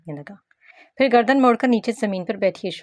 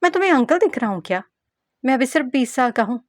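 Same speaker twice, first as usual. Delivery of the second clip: fast, higher, louder complaint; indignant protest; 6 semitones higher, 4 dB louder, faster than usual. Acted. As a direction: insist hotly that you're only twenty. Ruhel protests his age. (तेज़ और चिढ़ी हुई शिकायत)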